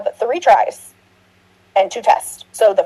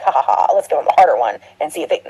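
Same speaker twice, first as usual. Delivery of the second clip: low, spoken fake chuckle into plotting; hammed-up low plotting voice; mock villainous scheming; 5 semitones lower than usual. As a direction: play a pretend schemer, pitched down. Voicing imagined scheming test makers.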